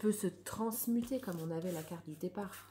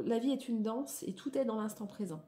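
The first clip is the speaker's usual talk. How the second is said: declamatory reading. Acted. Reads card text aloud.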